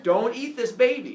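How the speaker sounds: high, loud mock scolding; stern warning. Rhea warning Kronos off the newborn, loud mock-stern order. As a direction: lay down the law, hammed-up.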